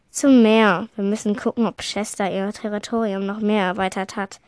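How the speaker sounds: a grim warrior giving orders. Acted. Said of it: "sagte Wolfmund grimmig". (grimmig und laut)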